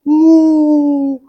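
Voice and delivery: loud mooing like a cow; pretend cow moo. Shown as a demonstration. Teacher pretending to be a cow with the children, loud. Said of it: "هيا نتظاهر بأننا بقرة".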